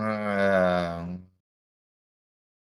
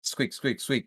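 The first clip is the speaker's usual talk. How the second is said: squeaky bat; 5 semitones higher than usual. Acted. Casey the bat nagging.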